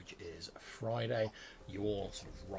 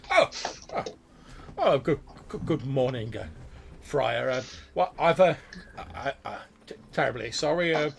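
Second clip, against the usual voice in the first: a distracted scholar greeting the friar; startled old wizard; 2 semitones higher, 6 dB louder than usual.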